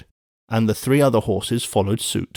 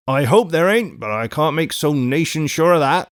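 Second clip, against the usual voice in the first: gruff, raised grumble; gruff soliloquy; 5 semitones higher, 3 dB louder than usual. A narrator's reading. Guard doubting the messenger, gruff muttering to himself. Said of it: "said the guard in gruff soliloquy".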